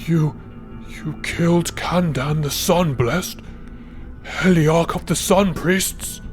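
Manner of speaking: high, slow, stammering horror; horrified disbelief. Acted. Priest learning the Heliarch was killed, horrified disbelief. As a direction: stretch the words out, aghast.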